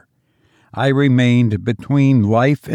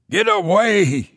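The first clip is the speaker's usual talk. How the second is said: higher, panicked cry; screamed; 8 semitones higher than usual. A narrator's reading. Cousin screaming as the cat turns on him, high. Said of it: "he screamed".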